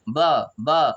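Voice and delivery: "ब" alone, ba with an uh vowel; isolated syllable sound. Shown as a demonstration. Teacher breaks down birth for pupils, "ब" as separate syllable. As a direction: sound out "ब" by itself, twice. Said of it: "आई किस में आ रहा है".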